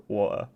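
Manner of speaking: "water" with the T dropped; "water" with a catch where the T would be; mocked British pronunciation. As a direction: imitate people teasing "water" as "wa'er". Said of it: "everyone goes, "Haha, like, water".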